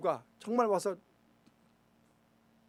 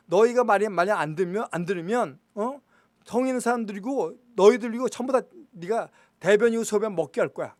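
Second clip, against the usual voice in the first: raised voice, imitating an envoy's yell; louder, higher mock shout of a threat; retold shouting; 3 semitones higher, 6 dB louder than usual. Envoy threatens the people at the city wall, retold shout. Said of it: "성벽에다가 대고서 소리를 치는 거죠".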